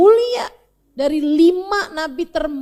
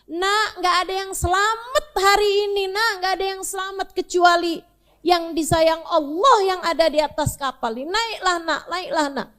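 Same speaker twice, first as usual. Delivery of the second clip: higher, gently begging voice; pleading father; 4 semitones higher than usual. Acted. Noah begs his son to climb aboard, gently pleading. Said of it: "La asimal yawmin amrillahi lamar rahim".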